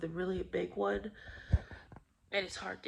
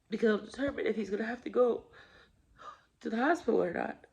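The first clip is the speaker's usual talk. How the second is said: after crying; 3 semitones higher, 4 dB louder than usual. Real, not acted. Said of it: "I just kinda broke down".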